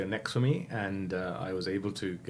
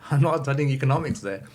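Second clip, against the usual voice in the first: louder and higher, stressing NOT; louder repeat; 5 semitones higher, 7 dB louder than usual. Retold or imitated. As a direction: say it again, louder and more firmly. Repeating it after father's "What?.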